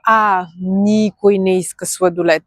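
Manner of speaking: slow, careful „никой не иска“; slow example. Shown as a demonstration. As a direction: say it slowly for learners. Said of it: "For example".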